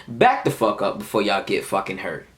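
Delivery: controlled warning at an everyday pitch; telling them nicely. Retold or imitated. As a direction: act out a calm, measured warning. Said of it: "I'm telling them nicely".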